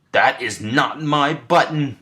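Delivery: high, slow, stretched wail; wailing Toad. A narrator's reading. Toad wails at the raccoon's wrong button, high slow wail. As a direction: wail it out in dismay. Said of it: "wailed Toad".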